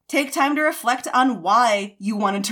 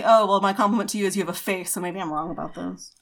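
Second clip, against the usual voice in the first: teasing quote; 3 semitones lower than usual. Retold or imitated. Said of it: "he says to me".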